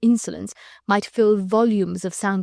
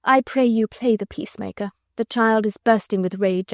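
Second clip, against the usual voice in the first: gentle sweet. Acted. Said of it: "in that gentle, sweet, musical voice".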